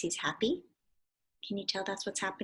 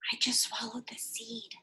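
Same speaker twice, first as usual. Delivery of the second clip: whisper; 6 dB quieter than usual. Acted. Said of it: "He says".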